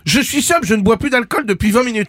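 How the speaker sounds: indignant shout. Acted. Indignant protest to host.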